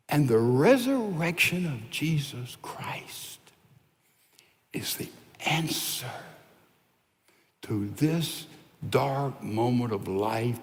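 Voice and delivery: whispered testimony; hushed. Real, not acted. Pastor whispering hope to grieving listeners, hushed. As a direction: breathe it out like a secret comfort. Hushed close of grief story.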